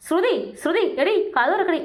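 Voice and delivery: mock urgent call through a closed door.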